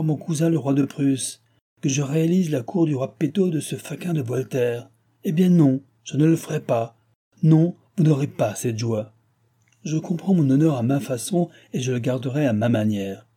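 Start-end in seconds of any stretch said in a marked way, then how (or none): 5.2-11.8 indignant refusal. Acted. King refuses angrily.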